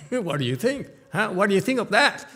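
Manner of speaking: put-on high, rising, loud kid voice; boy asking adults what they think, high and loud; boastful kid. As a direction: push for praise like a proud child.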